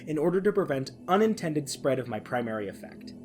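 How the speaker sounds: measured, ominous SCP file reading over music; dramatic reading. Acted. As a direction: read it like an eerie classified document. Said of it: "I am instead going to do a reading".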